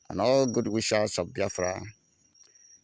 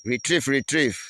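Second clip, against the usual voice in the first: higher, raised mock retreat call; defiant reply; 4 semitones higher, 4 dB louder than usual. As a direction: echo their cry back as a taunt. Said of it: "we are here responding to them".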